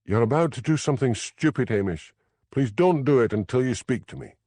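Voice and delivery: urgent. A narrator's reading. Elspeth warns Hamish on the phone, urgent. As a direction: hurry him, she knows what he's about to do. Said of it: "Elspeth's urgent voice".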